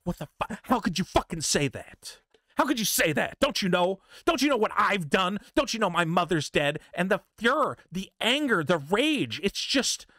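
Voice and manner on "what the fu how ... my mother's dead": mock offended outburst. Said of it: "And they go".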